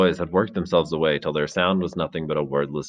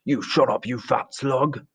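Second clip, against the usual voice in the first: high, slow contempt; angry insult; 6 semitones higher, slower than usual. Acted. Jack sneering at fat Piggy, slow and high.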